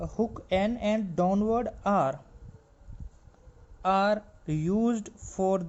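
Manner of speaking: reads the rule out slowly, word by word; slow dictated reading. Acted. Teacher to steno students, reading the rule slowly word by word.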